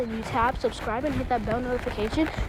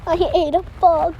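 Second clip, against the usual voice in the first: loud, disgusted, after swallowing a bug; just swallowed a bug; 4 semitones higher, 7 dB louder than usual. Real, not acted.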